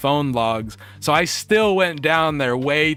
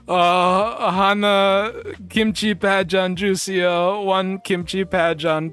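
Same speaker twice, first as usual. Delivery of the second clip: nervous halting order; 7 semitones higher, slower than usual. Retold or imitated. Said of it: "And I go".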